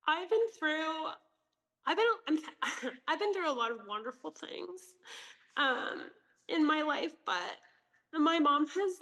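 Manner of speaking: ugly crying. Real, not acted. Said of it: "this is ugly crying".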